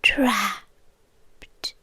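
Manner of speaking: distaste. Acted. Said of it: "That's such an ugly word".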